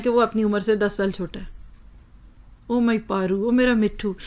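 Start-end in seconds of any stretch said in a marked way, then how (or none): 2.7-4.2 affectionate pet names. Shown as a demonstration. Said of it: "कहते हैं अपने बच्चों को लाड से".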